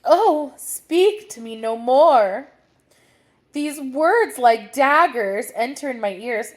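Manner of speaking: pleading queen. Acted. Queen pleading in Hamlet reading.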